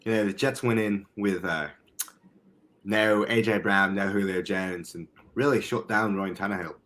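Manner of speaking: measured amateur British accent; put-on British accent. Shown as a demonstration. Podcaster arguing the Jets can win, in put-on British. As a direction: make the case in mock British. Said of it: "when I do this accent".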